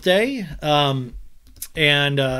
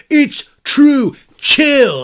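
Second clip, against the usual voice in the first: mock retort; 11 semitones higher, 10 dB louder, much slower than usual. Katie's retort imitated.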